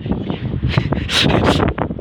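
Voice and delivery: breathy laughter without voice; real laugh. Real, not acted. Vlogger laughing at own pun, real laugh. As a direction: wheeze with laughter.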